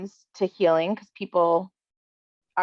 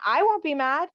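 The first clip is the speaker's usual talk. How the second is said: emphatic reassurance; 8 semitones higher than usual. Retold or imitated. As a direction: repeat "I won't be mad" higher, stressing "won't". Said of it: "someone to say".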